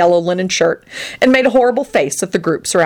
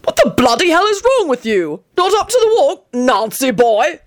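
high, jeering outrage; bellowing; 8 semitones higher than usual. Acted. Arthur taunts Antonin for not walking, high indignant bellow. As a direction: berate him in high-pitched exasperation. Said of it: "he bellowed".

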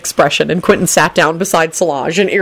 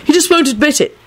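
high, earnest reassurance; higher, consoling tone; sympathetic; 9 semitones higher than usual. A narrator's reading. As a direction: reassure a sister in a raised, insistent voice. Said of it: "in a sympathetic tone".

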